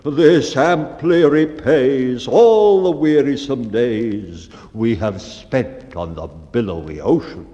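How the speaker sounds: a touch of choked-up grandeur; noble emotion. Acted. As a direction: speak as if overcome with feeling. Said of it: "unmanned for a moment with noble emotion".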